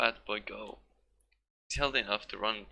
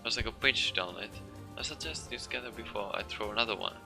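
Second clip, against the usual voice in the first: put-on old woman rage; 3 semitones higher than usual. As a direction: warn them off furiously. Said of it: "a voice thick with rage".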